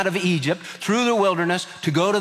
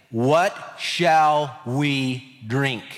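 drawn-out grumble, word by word; mildly grumbled question, very slow; grumbling complaint; 3 semitones lower, much slower than usual. Acted. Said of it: "the people grumbled at Moses".

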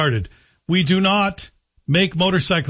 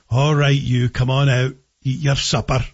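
put-on Scottish accent; 3 semitones lower than usual. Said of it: "in a Scottish accent".

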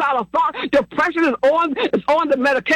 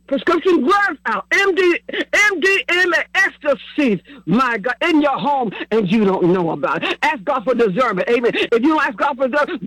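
rhythmic preaching cadence, pushing each phrase; preaching prayer. Acted. Pastor praying over listeners on the line, in preaching cadence. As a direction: pray over them like a pastor on fire.

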